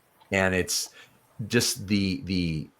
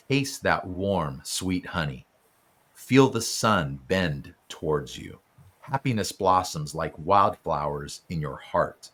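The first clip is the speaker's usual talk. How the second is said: poem reading; 3 semitones lower than usual. Acted. Host reads the book's gratitude poem to the author, gently.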